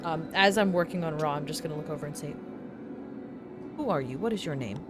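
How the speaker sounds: high, curious, musing tinkerer; a chirpy inventor probing questions. Acted. GM plays V character.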